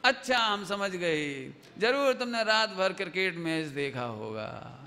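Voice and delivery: slow, drawn-out realization; knowing mother. Acted. Mother works out child watched cricket all night, slow and knowing. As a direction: draw the words out, teasingly knowing.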